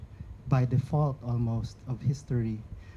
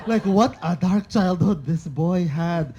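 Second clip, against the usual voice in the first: slowed, louder and higher, laughing through it; 5 semitones higher, 8 dB louder, slower than usual. Real, not acted. A poet reacting to a Cebuano translation, laughing. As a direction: laugh at the grim surprise.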